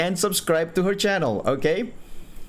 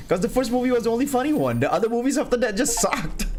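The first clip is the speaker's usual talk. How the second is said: excited rant; 9 semitones higher, faster than usual. Real, not acted. Laughing defense of opinion.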